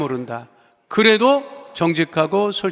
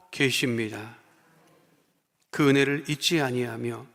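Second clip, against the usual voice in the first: prayer; 3 semitones lower than usual. Acted. Pastor leads prayer. (낮고 조용한 기도)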